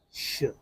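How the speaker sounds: щ as a long soft hushing shch; soft shch sound. Shown as a demonstration. Teacher contrasting щ with ш, soft hush. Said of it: "very close to ш".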